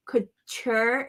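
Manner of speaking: "Couture" with a ch sound in the middle. Shown as a demonstration. Crafter shows how she says "Couture", with a ch. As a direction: say "Couture" as coo-CHOOR. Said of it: "I like that little ch in it".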